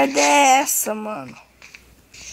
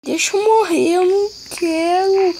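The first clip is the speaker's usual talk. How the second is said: panicking gamer; 6 semitones higher, 3 dB louder than usual. Real, not acted. Dying in game, pleading.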